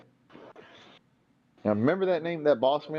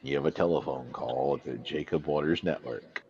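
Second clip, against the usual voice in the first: flat echoey pa page; 5 semitones lower than usual. Pretend. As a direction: drag it out like a PA. Mock PA page.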